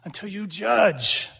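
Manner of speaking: loud pleading cry that slows down; a plea flung up to heaven, then drawn out slowly. Retold or imitated. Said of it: "They're crying out and they're pleading".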